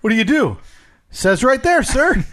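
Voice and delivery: put-on fast-talking old-time gumshoe; hard-boiled detective patter; 1930s detective voice. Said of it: "I don't know why you talk like a, a detective in the thirties".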